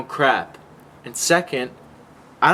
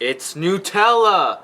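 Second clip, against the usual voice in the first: exasperated; 6 semitones higher, 5 dB louder, slower than usual. Real, not acted. Exasperated correction, shouted slowly.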